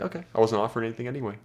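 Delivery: quick, playful throwaway line, said fast; smirking tease. Shown as a demonstration. Guy teasing a girl at the bar, fast smirking tease. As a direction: smirk it at her like you're playing. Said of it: "smirk back at her like you're playing with her".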